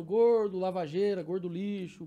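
acted-out tic rant, held in, then spilling over; imitating compulsive insult muttering. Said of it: "pra não gritar mesmo, E eu fico falando".

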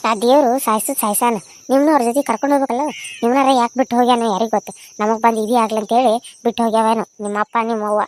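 harsh, sneering mother-in-law cursing the orphans; bitter scolding. Acted. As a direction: grumble curses at the girls. (ಅನಾಥ ಹುಡುಗಿಯರನ್ನು ಶಪಿಸುವ ಅತ್ತೆ)

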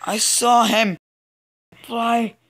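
a slow high shocked shout; shocked exclamation. Real, not acted. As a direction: call it out in amazement. Shocked at a hacking player.

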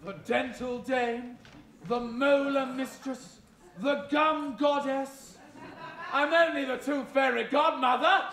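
grand camp dame voice; panto dame. Acted. Panto dame character monologue.

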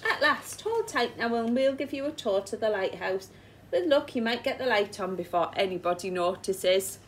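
loud call from the deck; shouting down. Acted. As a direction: shout down to the little dinghy. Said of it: "The Coast Guard shouted down at him".

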